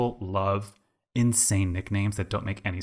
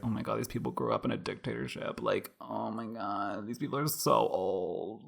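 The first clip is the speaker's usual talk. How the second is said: hushed inner thought; 8 dB quieter than usual. Retold or imitated. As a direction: let the realisation sink in under your breath. Inner reaction to elderly classmates.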